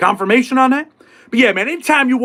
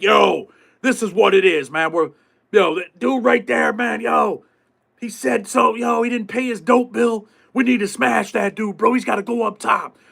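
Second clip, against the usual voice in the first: mock gang plotting; 3 semitones higher, slower than usual. Acting out plotting inmates.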